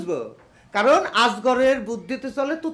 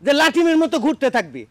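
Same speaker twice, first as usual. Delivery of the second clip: put-on belligerent drunk. Father threatens son with slap.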